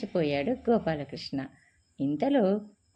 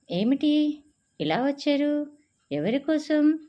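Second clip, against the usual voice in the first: laughing; 8 semitones higher, 3 dB louder than usual. A narrator's reading. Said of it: "నవ్వుతూ అడిగింది".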